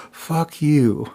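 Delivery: affectionate swear, not angry; kind, loving curse. Shown as a demonstration. Telling a friend I love you, kindly sworn. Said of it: "like, I'm kind to you".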